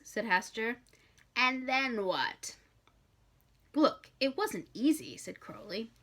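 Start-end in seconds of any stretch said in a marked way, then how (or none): 1.4-2.6 demon demand. Acted. Hastur demanding more. 3.8-5.1 defensive. Acted. Crowley defending himself.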